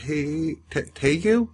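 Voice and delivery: stretched Southern vowels, hammed up; mock Southern accent. Actor copying a co-star's twang, overdone Southern accent. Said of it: "I can do Southern accent".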